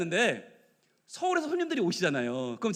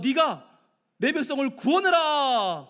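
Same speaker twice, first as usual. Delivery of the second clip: slow, raised, solemn order; God's command; 4 semitones higher, 4 dB louder, slower than usual. Acted. Preacher voices the Lord sending Moses to save his people, commanding. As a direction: proclaim it as a divine commission.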